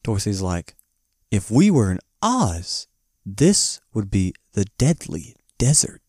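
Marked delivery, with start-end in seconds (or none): 1.3-6.0 slow dramatic retelling. Retold or imitated. Acts Dorothy's slow warning.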